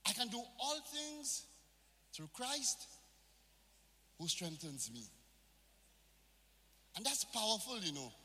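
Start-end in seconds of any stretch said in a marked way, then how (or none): 0.0-5.0 firm declaration of faith, words spaced out; preacher models the verse with conviction for the congregation. Shown as a demonstration. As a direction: proclaim it like you mean it. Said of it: "say it with conviction".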